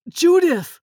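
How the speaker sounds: loud, high call of a name. A narrator's reading. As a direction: call out to get her attention. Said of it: "Nick called out".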